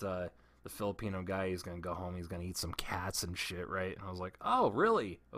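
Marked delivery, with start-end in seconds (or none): 4.4-5.2 higher, sarcastic "Oh, really?"; mock surprise. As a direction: fake wide-eyed interest. Mock reply to racist coworker.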